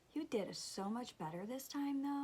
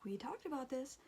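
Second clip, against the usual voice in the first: softer, higher, mildly reassuring; retold soothing; 4 semitones higher, 5 dB quieter than usual. Mom to son starting to freak out, mildly soothing. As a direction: gently talk a child down, lightly acted.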